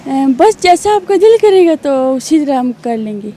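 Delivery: lightly voiced young woman on the phone; a hint of a coy girl chatting; girl's voice. Prank caller chatting with the host as a girl. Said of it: "کر کے تو دکھائیں".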